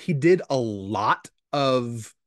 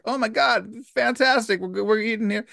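mild gushing; 7 semitones higher than usual. Retold or imitated. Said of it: "And they're like".

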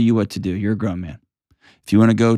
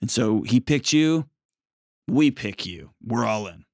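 a higher, gently accepting mother-in-law voice; lightly voiced, pitched-up in-law giving a warm welcome; welcoming mother-in-law; 4 semitones higher than usual. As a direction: speak as a mother-in-law who chooses to embrace her son's wife. Voicing ideal mother-in-law's welcome.

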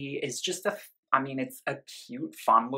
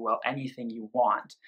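breathy whispered answer. Acted. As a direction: whisper it like a secret.

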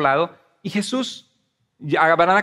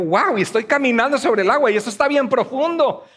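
higher-pitched pretend wonder; mock amazement; 5 semitones higher than usual. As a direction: marvel aloud as if walking on water. Acts Peter amazed on water.

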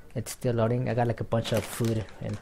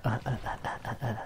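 soft rhythmic grunts imitating thumps; imitated body thumping; 8 dB quieter, much faster than usual. Gamer imitating their body thumping the floor, soft mock grunts. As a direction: grunt quietly in short repeated beats. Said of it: "my body was thumping the floor".

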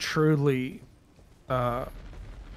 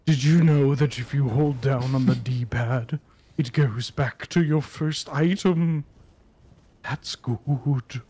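VaatiVidya impression. Quoting VaatiVidya's video narration.

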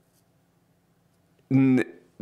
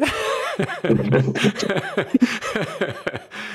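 long high laugh; 8 semitones higher than usual. Real, not acted. Laughs at their morning.

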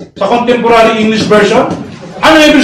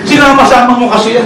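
laughing; faster than usual. Real, not acted. Laughing teasing opponent.

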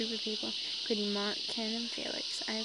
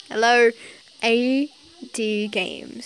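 put-on phone voice; 14 dB louder, much slower than usual. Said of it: "trying to do a voice".

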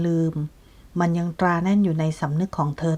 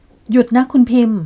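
louder, higher and slow, roaring for her to stop; furious shout; 5 semitones higher, 8 dB louder, slower than usual. Acted. Nat roars at Pim to stop her accusations, a furious shout. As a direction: bellow it so the whole house hears. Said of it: "นายนาถตะโกนลั่น".

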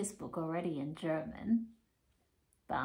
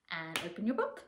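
softer, almost to yourself; soft opening; 3 semitones lower, 6 dB quieter than usual. Shown as a demonstration. Teacher easing the kids in, softly. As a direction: ease the book open quietly. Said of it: "book opening game with kids".

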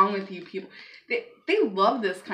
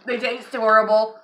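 loud complaint; 7 dB louder than usual. Real, not acted.

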